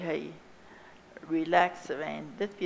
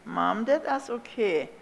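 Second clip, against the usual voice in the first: friendly; 2 semitones higher, slower than usual. A narrator's reading. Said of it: "Dan zei hij ganz vriendelijk".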